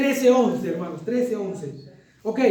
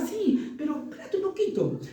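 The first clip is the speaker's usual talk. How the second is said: laughing; 8 semitones higher, 5 dB quieter than usual. Real, not acted. Laughing about baby's impatience.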